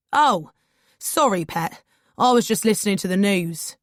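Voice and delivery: cheerful London Cockney cabbie, a bright "Oh" then chatty; friendly Cockney taxi driver apologising; Cockney accent. Acted. Cockney cabbie apologising to his passenger after hearing her knock. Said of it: "he says in a Cockney accent".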